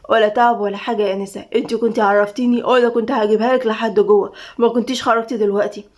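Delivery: courteous, restrained reassurance; deferential guard Tamim. Acted. Guard handing the lady her pizza, deferential.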